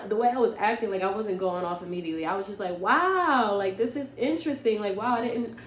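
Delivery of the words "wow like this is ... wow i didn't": sarcastic. Retold or imitated. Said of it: "very sarcastic".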